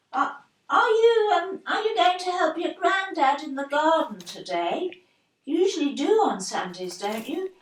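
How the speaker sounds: fighting back tears, stumbling over the words; tearful. Acted. Grandmother tearfully asking her absent grandson about the garden, voice breaking. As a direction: voice cracking with tears as she asks.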